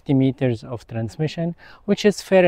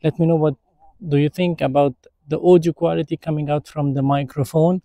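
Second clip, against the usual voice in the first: processed mic audio with noise reduction on; filtered, denoised microphone sound; noise reduction artifacts; 4 dB louder than usual. Shown as a demonstration. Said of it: "now I will turn it on with a click of a button".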